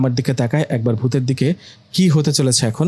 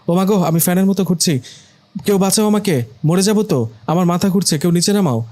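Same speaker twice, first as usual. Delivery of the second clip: higher, frantic cries while spinning; dizzy panic; 4 semitones higher than usual. Acted. Boyfriend spinning like a fan begs anyone to help, frantic. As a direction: wail for rescue, head spinning.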